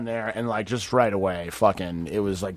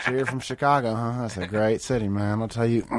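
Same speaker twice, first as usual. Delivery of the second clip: lightly imitated chat in mid push-up; casual small talk through push-up effort, lightly mimicked; McConaughey. Co-star chatting during push-ups, a light impression. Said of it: "start doing push-ups while he's talking".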